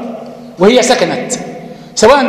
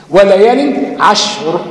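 Quran recitation; much slower than usual. Shown as a demonstration. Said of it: "reciting a Quranic example".

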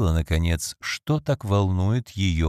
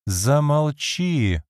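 commanding; 6 semitones higher, much slower than usual. Acted. Lady Audley silences her muttering maid, stern. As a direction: cut her off with authority. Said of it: "властным жестом прервала".

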